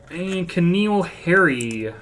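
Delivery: slow, loud, high callout; card-pull announcer. Real, not acted. Card breaker revealing a player to viewers, announcer callout. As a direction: announce the name big and drawn out.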